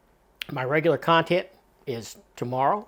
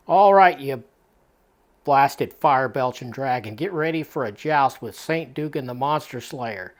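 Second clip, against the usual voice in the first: mock heroic battle cry; 6 dB louder than usual. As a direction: boom out the challenge like a would-be monster slayer. Comic hero charges Godzilla with harpoon.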